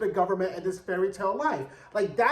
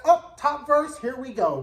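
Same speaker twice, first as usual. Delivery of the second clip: excited; 5 semitones higher, 4 dB louder than usual. Retold or imitated. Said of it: "And I was like".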